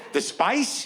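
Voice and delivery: high disbelieving question; baffled, checking he heard right; incredulous. Retold or imitated. Incredulous question about spice.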